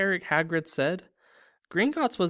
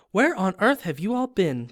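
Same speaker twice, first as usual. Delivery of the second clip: higher, louder indignant question; shocked; 6 semitones higher, 6 dB louder than usual. Acted. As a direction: scold them, shocked. Fat Lady scolding.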